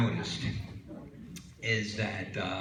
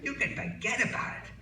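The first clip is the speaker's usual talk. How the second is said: indignant wife; 2 semitones higher than usual. Acted. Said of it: "She says".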